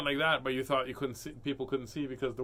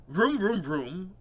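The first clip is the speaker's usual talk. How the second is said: car engine noise; 4 semitones higher, 4 dB louder, slower than usual. A narrator's reading.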